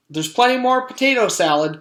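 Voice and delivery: high calling lunch lady. Acted. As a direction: offer seconds to everyone. Called Miss Mush.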